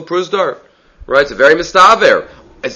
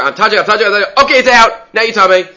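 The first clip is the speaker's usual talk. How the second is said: midwife's running call, raised in pitch; lightly voiced midwife; 5 semitones higher, faster than usual. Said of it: "The midwife is saying there".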